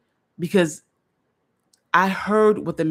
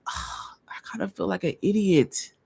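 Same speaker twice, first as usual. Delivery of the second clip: breathy whispered admission, voice unvoiced; a hushed whisper of embarrassment; 4 dB quieter than usual. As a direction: whisper it to yourself, feeling foolish. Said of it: "I was like".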